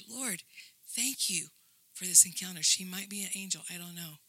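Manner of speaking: soft, quiet thanks to God, half under the breath; hushed prayer. Retold or imitated. Recalling a quiet moment of thanks to God, softly. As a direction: murmur it like a private prayer.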